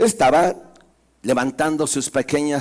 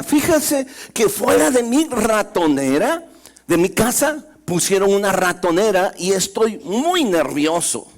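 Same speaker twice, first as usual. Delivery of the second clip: high, louder pleading mouse voice; nervous mouse; 5 semitones higher, 3 dB louder than usual. Acted. Nervous mouse pleads with the sheep, high and urgent. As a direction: beg for help, anxious and high. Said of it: "todavía nervioso".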